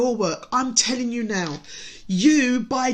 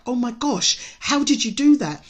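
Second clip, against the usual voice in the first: lightly acted excitement, pitched up; amazed reaction; 3 semitones higher than usual. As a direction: voice an astonished texted reply. Cousin's amazed text voiced aloud.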